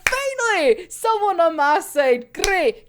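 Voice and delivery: a happy burst of relief; relieved cheer. Retold or imitated. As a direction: grab the ally with glee. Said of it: "He's like".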